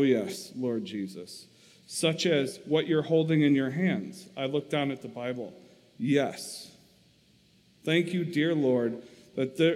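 steady, expressive reading aloud to a congregation; story reading. A narrator's reading. Preacher reading Corrie ten Boom's memoir to the church, expressive narration.

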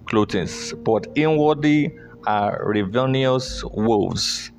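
rising preacher's voice, driving hard on key words; forceful scripture reading. Acted. Preacher reading Peter's warning to the church, forcefully. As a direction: proclaim the verses with building force.

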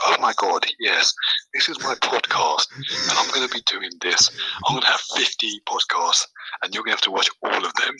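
loud, lightly put-on posh accent; mock posh voice. Guest mimicking the host's podcast voice, mock posh. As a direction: imitate a posh presenter, playing it up loudly. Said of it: "you were talking really posh".

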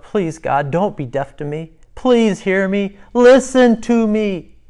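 plea building to a high, loud, slow cry; David crying out. Acted. Preacher voices David begging God to hear, building to a cry. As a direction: start restrained, then cry out urgently. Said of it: "And David cries out".

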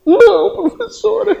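high, whiny mock plea; student whining to the teacher, mock pleading. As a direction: beg the teacher in a high little voice.

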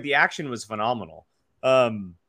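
words stretched by a yawn. Real, not acted. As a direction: talk through a tired yawn. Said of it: "sorry, I keep yawning".

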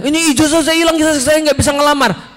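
high-pitched frightened job seeker; mock panic. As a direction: imitate someone scared to death. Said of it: "udah takutnya setengah mati".

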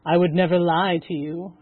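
soothing. Acted. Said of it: "I soothed".

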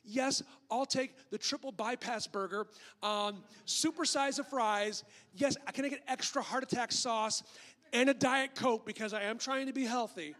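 emphatic mock fast-food order; playing the oblivious hypocrite; self-satisfied customer ordering. Acting out hypocrite ordering junk food.

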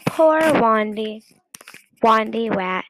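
Wandy Wat, r said as w; says w for r. A narrator's reading. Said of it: "he couldn't pronounce his R's".

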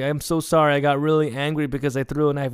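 pleading apology. Retold or imitated. Retold apology to angry father.

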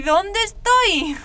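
put-on scared girl shouting into the empty cell; frightened cry. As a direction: cry it out as the panic breaks. Panic rising in a cell.

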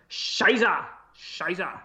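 slow, drawn-out mock German; low, badly faked German; German accent. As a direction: try a crude German accent. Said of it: "to do a German accent".

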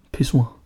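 Pissoir echoed in French style, pis-SWAR; French pronunciation. Retold or imitated. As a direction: Pissoir mimicked with French vowels. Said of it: "på den der franske måde".

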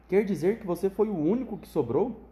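a touch of mock surprise; feigned surprise. Wonka to Charlie, mildly faking surprise. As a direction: act lightly surprised, not really meaning it. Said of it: "fingindo surpresa".

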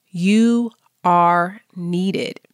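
very slow, weighted words; slow sincere reassurance; slow affirmation. Real, not acted. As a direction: let each word land. Affirmation list.

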